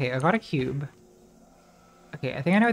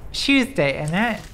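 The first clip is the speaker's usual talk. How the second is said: lightly hammed British accent; bad British accent; 3 semitones higher than usual. Shown as a demonstration. Streamer's last try at a mock British accent. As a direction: do a poor British impression. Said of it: "Am I best British accent".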